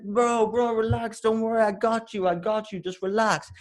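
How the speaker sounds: put-on high, insistent Russian-accented reassurance; Russian taxi driver. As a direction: brush off worries as a Russian cabbie. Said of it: "I've got this Russian taxi driver".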